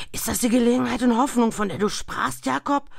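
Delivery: hoch, schnell, lauter gestammelt; stammelnd ängstlich. A narrator's reading. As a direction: stammle entsetzt die Frage. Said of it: "stammelte er". (Scrooge fragt den Geist stammelnd)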